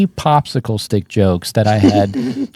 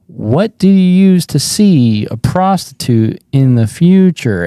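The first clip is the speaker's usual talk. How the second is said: louder, strained joke delivery; crumbling on stage; 3 semitones higher, 3 dB louder than usual. Retold or imitated. Comic repeats the wrong joke to the audience, crumbling. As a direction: push the joke out while falling apart inside.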